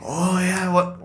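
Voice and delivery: put-on high, half-hearted trashy Southern accent; Southern trash accent. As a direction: attempt a trashy Southern drawl, then give up. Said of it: "she was more Southern trash".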